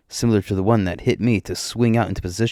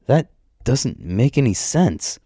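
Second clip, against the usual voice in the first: slow, higher-pitched exasperation; baffled protest; 5 semitones higher, slower than usual. Acted. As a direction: drag it out in bafflement. Baffled reaction to the explanation.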